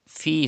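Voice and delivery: Fi with the long vowel held two beats; stretched madda. Shown as a demonstration. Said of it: "you have to stretch ya madda".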